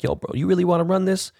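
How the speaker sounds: high taunting challenge with REALLY leaned on; mock taunt. Taunting a freeway rival, high and mocking. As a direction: pitch it way up, daring the other driver. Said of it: "be like".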